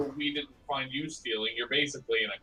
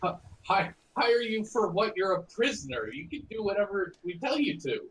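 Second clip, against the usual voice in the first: scoffing guard; 5 semitones higher than usual. Acted.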